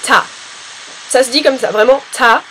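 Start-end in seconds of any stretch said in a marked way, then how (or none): 0.0-0.2 Ta with the A stretched a little; Ta, letting the A drag out slightly; long A. Shown as a demonstration. Teacher shows British "Ta" with a lengthened A. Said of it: "avec le A qui s'allonge un petit peu". 2.1-2.4 ta with the A stretched a little; ta, drawing the A out slightly; long A. Shown as a demonstration. Teacher repeats British "ta" with a lengthened A. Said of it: "avec le A qui s'allonge un petit peu".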